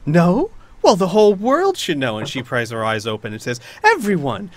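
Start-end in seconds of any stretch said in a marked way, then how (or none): 0.1-2.2 louder taunting, higher; mocking villain. Knight taunting Finn, scornful. 3.8-4.5 loud, high public denouncing; proclaiming to all. Acted. Knight exposing Finn to everyone, loud proclamation. Villain announces to crowd.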